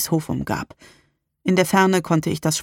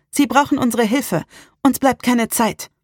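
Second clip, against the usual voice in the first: higher, determined urging; undaunted; 7 semitones higher than usual. A narrator's reading. Salem urges that the girls need help, undaunted. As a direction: press the point fearlessly. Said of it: "sagte sie unerschrocken".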